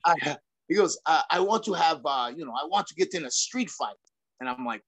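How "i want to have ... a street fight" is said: lightly imitated foreign accent of a friend; a rough go at your friend's accent; George Gurgel. Friend announcing he wants a street fight, lightly imitated accent. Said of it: "do my best George, uh, accent".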